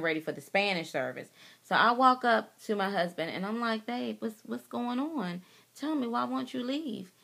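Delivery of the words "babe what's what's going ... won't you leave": soft, higher-pitched coaxing question; gentle pleading. Retold or imitated. Wife asking her husband why he won't leave church, gentle pleading. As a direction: ask gently, voice raised in pitch but kept soft.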